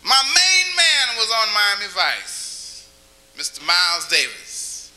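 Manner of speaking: slow, hushed voice of a jazz musician. Retold or imitated. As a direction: lean back and drawl it like the musician. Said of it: "You ever heard Miles talk".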